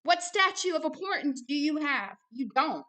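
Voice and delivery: loud, high, heated insistence; real, worked-up anger; mad. Real, not acted. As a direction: fire the challenge at them in exasperation. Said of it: "I'm mad".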